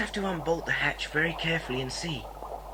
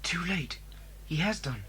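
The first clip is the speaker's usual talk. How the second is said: whisper; 3 semitones lower, 7 dB quieter than usual. Acted. Sleeping guard wakes.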